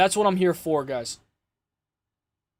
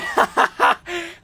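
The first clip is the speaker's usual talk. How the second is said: real laugh at himself; high burst of laughter; 9 semitones higher than usual. Real, not acted. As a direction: laugh out at your own bad singing. Laughs at own singing.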